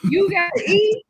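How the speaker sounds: high, loud firm command; stern mom order. Retold or imitated. Mom insisting her sick daughter eat first, loud firm order. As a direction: lay down the law to the kid. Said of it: "retold to daughter".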